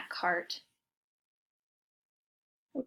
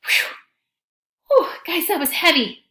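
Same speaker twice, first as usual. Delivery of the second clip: mock relief; 6 semitones higher, 9 dB louder than usual. Relief after pushing.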